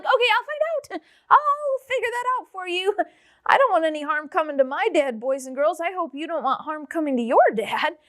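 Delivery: put-on high, laughing frightened young wife; a scared bride promising to find out. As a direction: squeak it out nervously between laughs. Wife's frightened reply, voiced high.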